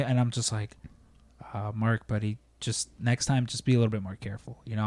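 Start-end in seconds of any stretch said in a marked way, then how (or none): 1.5-4.6 soft, quick, half-hearted reprimand; mild gentle scolding. Retold or imitated. Speaker softly telling coworker Mark to be careful, mild. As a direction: barely scold him, keep it soft.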